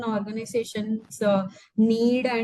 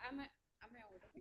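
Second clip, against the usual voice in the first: bottom of a well; 4 semitones higher, 29 dB quieter, much faster than usual. Real, not acted. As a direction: sound far away and hollow, barely audible. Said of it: "you sound like you're at the bottom of a well".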